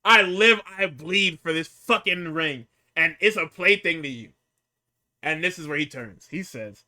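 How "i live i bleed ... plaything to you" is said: emphatic retold wrestling promo; impassioned promo quote. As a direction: act out the wrestler's fervour.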